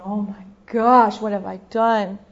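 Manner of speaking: slow, loud groan of regret; acted remorse. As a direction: moan it out in dawning regret. Voicing Mary's regret in bed.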